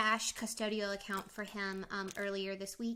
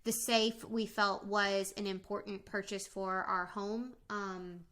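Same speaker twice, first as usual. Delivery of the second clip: mouth full. Real, not acted. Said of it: "I'm eating fruit snacks".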